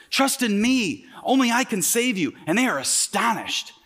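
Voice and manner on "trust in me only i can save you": higher, commanding Jesus quote; voice of authority. Retold or imitated. Jesus speaks to the crowd, a higher commanding call. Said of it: "they hear that authority".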